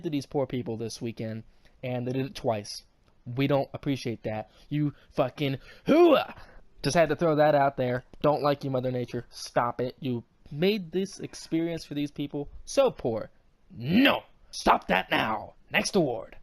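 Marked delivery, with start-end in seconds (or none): 4.7-6.3 loud, slow army battle cry; loud gung-ho soldier. Pretend. Yelling at Mother Nature. 13.8-15.5 loud, slow mock scold. Scolding Mother Nature.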